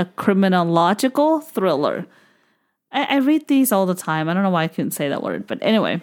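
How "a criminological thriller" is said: painstaking, very slow, drawn-out, careful enunciation. Speaker who struggled with a word earlier, now saying it slowly. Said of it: "so I'm going to say it slowly".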